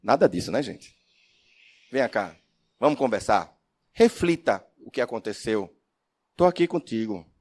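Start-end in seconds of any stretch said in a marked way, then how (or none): 1.9-7.3 gentle mentor. Shown as a demonstration. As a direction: draw the child in kindly. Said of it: "Olha como muda o tom". (tom acolhedor e calmo de mentor)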